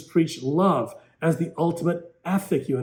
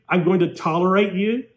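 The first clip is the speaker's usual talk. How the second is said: mocking echo; 3 semitones higher than usual. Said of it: "That's your virtue?".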